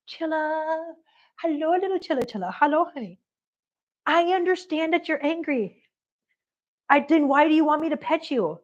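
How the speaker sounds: calm an upset kitty sweetly; cooing reassurance to a pet; soothing pet talk. Real, not acted. Soothing the angry cat.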